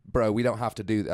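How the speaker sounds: lightly imitated British accent. British kid backing out of the fight, imitated British accent. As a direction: put on a Brit's accent, backing down. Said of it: "I don't know why I'm still doing the accent".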